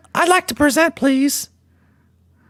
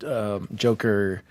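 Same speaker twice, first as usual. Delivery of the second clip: put-on much lower, leering wheezy old man; creepy old man voice; 13 semitones lower than usual. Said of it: "creepy Pee Wee Herman slash Lotion Man".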